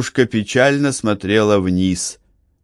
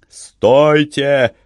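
loud desperate cry of stop; shout; 6 semitones higher, 4 dB louder than usual. A narrator's reading. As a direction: cry out with resolve and pain. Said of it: "закричал Корнелиус". (решительный крик с болью)

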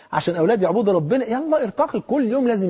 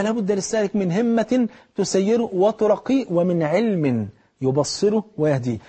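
slow recited maxim; slower than usual. Shown as a demonstration. Preacher reciting the full maxim.

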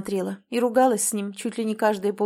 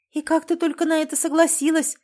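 much higher, naive amazed exclamation; 8 semitones higher, 4 dB louder than usual. Acted. Natasha marvels at her sister's sacrifice, naive and higher. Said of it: "наивно воскликнула Наташа".

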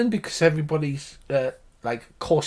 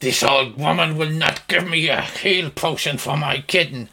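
put-on monster voice, only mildly shouted; shouting manticore; 2 semitones higher than usual. Game master as manticore complaining about the healer, mild monster shout. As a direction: complain as an aggrieved beast, little real volume. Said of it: "The Manticore shouts".

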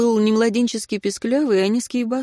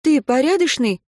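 insistent question, a bit louder; demanding; 7 semitones higher, 5 dB louder than usual. Acted. Katya demands an answer from Anton, insistent and louder. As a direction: press him for the answer. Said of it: "требовательно спросила Катя".

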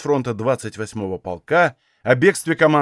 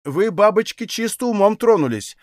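offended; 6 semitones higher than usual. A narrator's reading. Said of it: "обиженно поддержала".

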